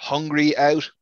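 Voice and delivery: slow, drawn-out disdain; exasperated quoting. Shown as a demonstration. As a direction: stretch out HUNGRY OUT with distaste. Mocks a phrase that annoys him.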